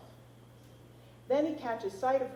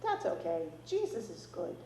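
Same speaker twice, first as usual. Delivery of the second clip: put-on little boy voice. A narrator's reading. Toddler answers grandpa.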